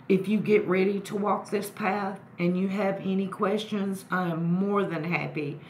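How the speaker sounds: talking around a lit cigarette; cigarette in mouth. Real, not acted. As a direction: speak with a cigarette between the lips. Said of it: "let me light a cigarette".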